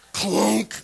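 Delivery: a sudden mock clunk of the gearbox; imitated clunk. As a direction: bark out the gear noise. Gear shifts with a clunk.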